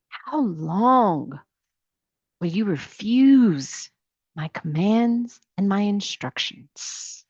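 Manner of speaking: slow, measured God's voice; voicing God again. God asking again how long they will refuse, slow and measured. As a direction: let each word of the question land slowly. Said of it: "then the Lord said to Moses".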